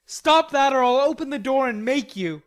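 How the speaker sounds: loud, high-pitched angry threat; threatening shout. A narrator's reading. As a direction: call out a warning through a shut door. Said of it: "in a threatening tone".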